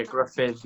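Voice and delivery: "Gruffydd" with the dd as a voiced th, stress on the first syllable; Welsh pronunciation. Shown as a demonstration. Singer confirming the name for the interviewer, Welsh "Gruffydd". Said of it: "the proper Welsh pronunciation".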